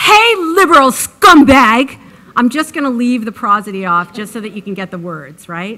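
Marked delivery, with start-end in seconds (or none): 0.0-2.0 loud, high, slow, nasty sneering delivery. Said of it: "I'm not gonna read it like".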